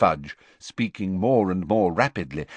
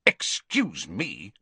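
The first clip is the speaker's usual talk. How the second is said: barked; much slower than usual. Acted. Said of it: "barked the Prime Minister".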